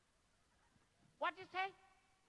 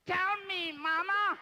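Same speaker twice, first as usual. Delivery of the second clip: much higher, louder call of Mama; 9 semitones higher, 10 dB louder, much slower than usual. Real, not acted. Urging the child to answer, a loud high call.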